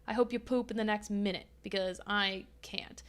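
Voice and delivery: whispered aside. Real, not acted. Quick whispered aside to dog.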